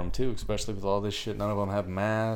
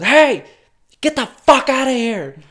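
high, loud shout to chase someone off; big mock holler; acted angry shout; 10 dB louder than usual. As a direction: yell it like an irate store worker. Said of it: "She just starts shouting at this homeless guy".

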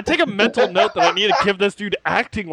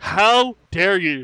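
mock outrage; slower than usual.

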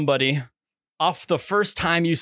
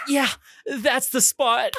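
slow, laughing through the words; laughing mock pleasure; 6 semitones higher, slower than usual. Telling his friend about the exam, laughing. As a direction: giggle it out slowly.

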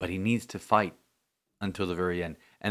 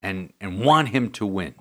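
mild conviction. Retold or imitated. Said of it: "he said it with so much conviction".

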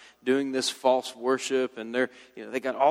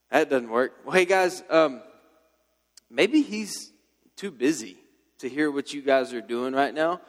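normal talking voice

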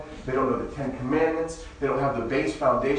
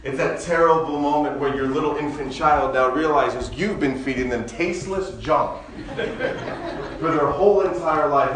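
laughing while talking, louder; 3 semitones higher, 5 dB louder than usual. Real, not acted. Pastor telling the congregation about his baby and pizza, laughing. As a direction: chuckle through the punchline.

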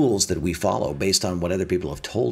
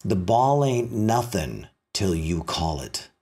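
wise master umpire; 3 semitones lower, slower than usual. Retold or imitated. Master umpire to his two pupils, slow and knowing. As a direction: let the wisdom land gently and slowly. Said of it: "looks at him and says".

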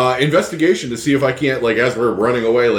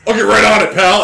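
sarcastic; 8 semitones higher, 6 dB louder than usual. Acted. Sarcastic reply before attacking.

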